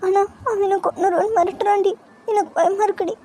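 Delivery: weepy, scared confiding; tearful, frightened. Acted. Girl confiding to her friend that he threatened her, tearful. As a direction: plead for comfort through tears. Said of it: "சரிடி, அழாத".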